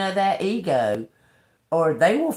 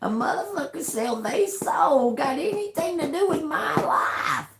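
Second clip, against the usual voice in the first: high, cracking laugh through the words; laughing disbelief; 8 semitones higher than usual. Real, not acted. Laughing in outrage about soul-selling. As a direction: laugh it out, half crying.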